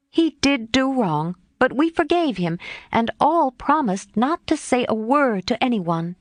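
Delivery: a hint of reluctance; reluctant. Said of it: "began Jo reluctantly".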